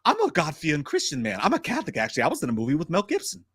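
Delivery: lightly voiced pious tough guy; a touch of earnest movie-star impression; Wahlberg. Co-host asking if he is the devil, lightly voiced Wahlberg impression. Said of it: "Could I get a Wahlberg".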